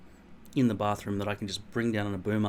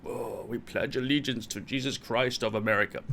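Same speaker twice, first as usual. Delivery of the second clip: mock American pledge; 3 dB quieter than usual. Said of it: "pledging allegiance to the flag as children".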